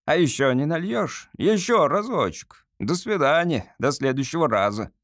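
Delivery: a lightly voiced cabby cadging a drink; coachman at the bar. Coachman asking the barman for another, wheedling. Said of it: "тоном, который сделал бы честь самому лучшему кучеру".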